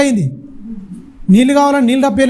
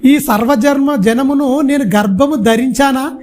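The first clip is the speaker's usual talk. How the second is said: Moses in anguish; 3 semitones higher than usual. Retold or imitated. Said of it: "బాధతో ఏమంటుండు".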